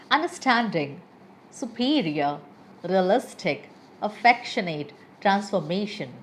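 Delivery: "Understanding, superior, realistic, affectionate, transformation" each with its main syllable stressed; teacher reciting "Understanding" to "transformation", leaning on each stressed syllable; stressed syllables shown. Shown as a demonstration. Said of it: "where am I putting stress upon".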